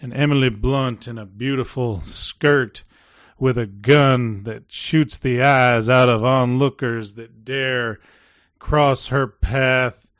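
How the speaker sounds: put-on old frontier cowboy voice. Shown as a demonstration. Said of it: "doing a cowboy voice".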